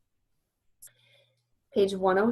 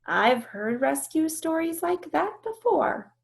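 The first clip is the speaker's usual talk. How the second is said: weary; 8 semitones higher than usual. Acted. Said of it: "She sounds weary".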